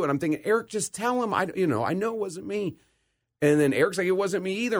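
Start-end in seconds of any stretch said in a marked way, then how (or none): 0.4-2.7 put-on high, tearful child's plea; pleading through tears. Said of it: "I'm crying". 4.1-4.8 put-on high, teary kid's denial; sobbing denial. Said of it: "we're both sobbing".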